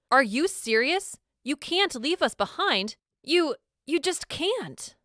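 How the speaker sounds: high, disbelieving protest that swings up and down; outraged cry. A narrator's reading. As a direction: cry out in hurt rage, slowing on the last words. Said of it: "Sophia cries out".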